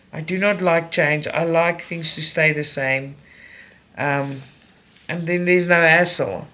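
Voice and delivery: talking round a needle; needle in mouth. Real, not acted. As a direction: speak with a needle between lips. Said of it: "Sorry, I've got a needle in my mouth".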